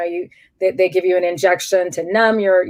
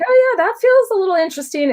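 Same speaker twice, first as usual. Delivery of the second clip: imitating the doctor; 11 semitones higher, faster than usual. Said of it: "she's like".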